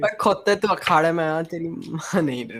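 rapid-fire mock Punjabi taunt; fast put-on Punjabi bluster; Punjabi accent. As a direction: rattle off a Punjabi-accented challenge. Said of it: "that's a little more accurate".

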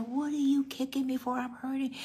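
high-pitched mock protest; acted complaint. Young pregnant mother protesting at her kicking baby, complaining.

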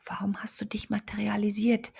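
gentle unvoiced whisper; soft whisper. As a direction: breathe the question softly. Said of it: "flüsterte sie leise".

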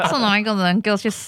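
laughing fake outrage; mock angry boss, laughing. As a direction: yell like a boss, barely holding laughter.

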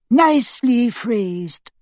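slow, high, lilting approval; eagle door knocker. Acted. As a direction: purr the compliment.

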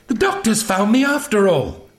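high-pitched, joyful relief; delighted cry. A narrator's reading. Zoe realises the doctor has found her, delighted. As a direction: exclaim it high, overjoyed. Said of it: "cried Zoe delightedly".

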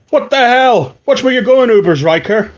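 high, indignant outburst; indignant guard. Acted. Guard yells at newcomer who spilt his meal, indignant. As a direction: snap at someone who bumped into you.

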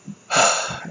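shaky breathy sigh. Real, not acted. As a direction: let out a wavering sigh. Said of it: "I don't wanna get too sad here".

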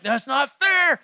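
high-pitched protest, re-enacting anger at God; retold angry yell. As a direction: cry it out like an indignant complaint. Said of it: "I was yelling at God".

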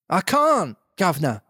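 high, loud pleading whine; beggar's whine to the captor. Acted. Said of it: "I said in a real beggar's whine".

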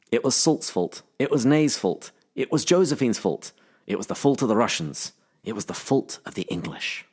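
put-on British accent drifting toward Scottish; accusing quote in a wobbly, faintly Scottish accent; attempted accent. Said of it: "started to bring your Scottish accent".

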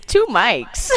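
halting, drawn-out bad impression; slow, badly faked celebrity voice; horrible Chris Walken. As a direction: do a bad Walken, dragging the words. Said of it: "my horrible Chris Walken impression".

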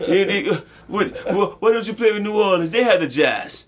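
high, laughing mock French accent. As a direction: ham up a Frenchman, pitch well up. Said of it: "Is that the French accent?".

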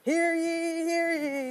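high, loud herald's cry; town crier. Pretend. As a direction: announce it like a royal herald. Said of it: "It's not a proclamation".

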